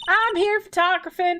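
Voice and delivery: put-on Southern accent. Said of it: "Southern accent localization".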